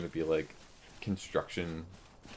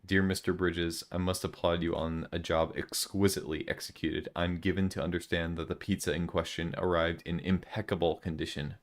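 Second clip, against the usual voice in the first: grand, growing louder formal letter read; 4 dB louder than usual. Acted. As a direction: read the letter like a pompous gentleman, rising in volume. Reads a formal letter aloud.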